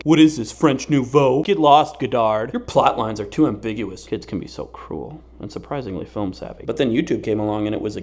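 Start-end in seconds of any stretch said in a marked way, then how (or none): 0.0-4.1 mock bully. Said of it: "People always calling me".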